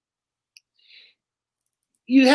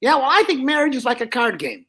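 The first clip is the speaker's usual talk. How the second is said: high, brash dummy voice; Joey the dummy; 5 semitones higher, faster than usual. Acted. Dummy flirting with the lady down front, high and brash.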